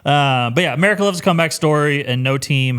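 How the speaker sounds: excited. Real, not acted. Rousing sports pitch.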